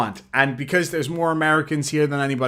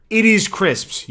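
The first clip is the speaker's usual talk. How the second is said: emphatic; 8 semitones higher, 5 dB louder, slower than usual. Real, not acted. Agreeing with a donor.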